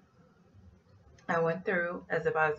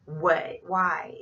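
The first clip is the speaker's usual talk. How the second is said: louder startled what, why; defensive surprise; 5 dB louder than usual. Retold or imitated. Caught passenger startled and defensive, louder. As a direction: sound caught off guard.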